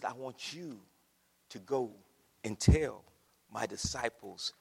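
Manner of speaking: deep, subdued voice of calm authority; Jesus speaking to Mary. Acted. Voices risen Jesus instructing Mary.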